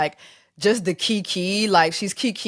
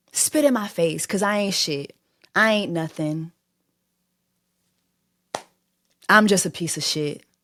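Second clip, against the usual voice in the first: mocking, passive-aggressive put-on voice. Echoing a mother's reply to her daughter: imitating a passive-aggressive mother. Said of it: "insulting her in a very passive-aggressive type of way".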